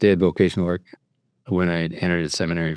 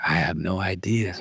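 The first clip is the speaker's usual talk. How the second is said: laughing; 3 semitones higher, 9 dB quieter than usual. Real, not acted. Laughing at own ignorance.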